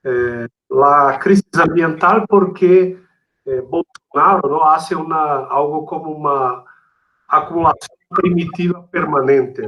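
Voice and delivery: Spanish with a Brazilian Portuguese accent; Portuñol. Real, not acted. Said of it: "perdón por el portuñol".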